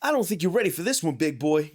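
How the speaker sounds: high, loud, fast taunt; high, fast machine taunt; taunting announcer. Retold or imitated. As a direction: needle the player from the machine. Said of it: "He'd start taunting you".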